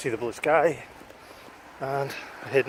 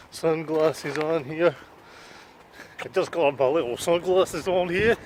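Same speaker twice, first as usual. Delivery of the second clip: lightly put-on, higher parody voice; affectionate mock vlogger, pitched up a touch; Neil Morris parody; 4 semitones higher than usual. Vlogger parodying a friend's beach vlog, teasing mock voice. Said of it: "a wee parody of, uh, Mister Neil Morris".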